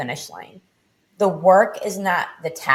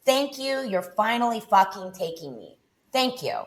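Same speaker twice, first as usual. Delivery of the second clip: higher, fervent thanks; a rush of grateful release, pitched up; retold relief at being taken, voice raised; relieved prayer; 5 semitones higher, 5 dB louder than usual. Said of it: "I was ready".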